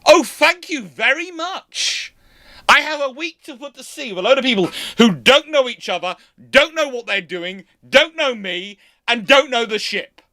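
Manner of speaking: mock gratitude, piling up the complaints; sarcastic captain. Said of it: "turning up on a ship and going".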